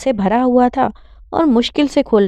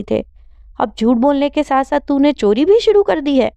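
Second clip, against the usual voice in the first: heated, pitched-up rebuke; angry scolding; 5 semitones higher than usual. Acted. Sister scolding brother over stolen tuition money, angry. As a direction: let the hurt and anger pour out at him. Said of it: "Sidra نے غصے سے کہا".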